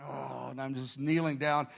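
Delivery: soft, low tired groan; worn-out sigh of a word. Retold or imitated. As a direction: let out a weary, quiet "oh". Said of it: "I'm so tired".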